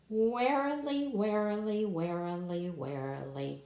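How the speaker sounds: warily sung descending, growing sleepy; warily stepping down. Shown as a demonstration. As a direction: let warily sink down like a sigh. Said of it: "look out for that word on this page".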